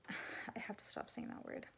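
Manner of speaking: whispered note to herself after a sigh; hushed self-correction; muttered aside. Real, not acted. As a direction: drop to a breathy whisper, scolding yourself.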